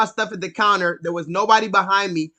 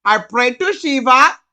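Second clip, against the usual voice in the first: put-on louder Indian accent with a rising tune; 5 dB louder than usual. Hindu man insisting to the narrator, in a loud Indian accent. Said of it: "he was like".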